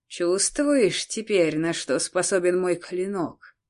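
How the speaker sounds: медленно и зловеще, как злодей; протяни угрозу неспешно, смакуя; зловещее шипение. Acted. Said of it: "зловеще прошипел Альберик". (зловещий злодей шипит медленно)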